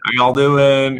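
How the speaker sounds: lightly put-on Southern US accent; imitated Southern accent. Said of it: "they have the most Southern accents".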